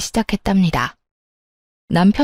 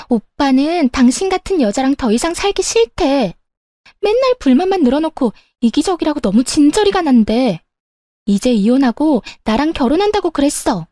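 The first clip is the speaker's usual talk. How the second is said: higher-pitched, taunting other woman; brazen mistress; 5 semitones higher than usual. Acted. Mistress to wife about the husband, brazen.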